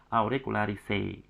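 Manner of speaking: auricularise ending in a single "se"; correct ending pronunciation. Shown as a demonstration. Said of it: "bacanya adalah auricularise".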